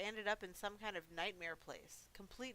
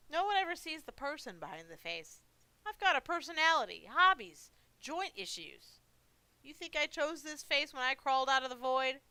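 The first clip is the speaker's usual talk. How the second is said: put-on higher, louder complaining old creature; aggrieved old monster; 6 semitones higher, 7 dB louder than usual. Misjudged monster defending himself to the visitor, aggrieved old monster. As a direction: grumble in a lightly voiced old-monster voice.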